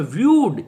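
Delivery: व्यूड ends on a plain d; viewed with d ending. Shown as a demonstration. Teacher showing the d ending, careful demo. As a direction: say व्यूड with a simple d. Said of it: "इसमें भी ड बोलें".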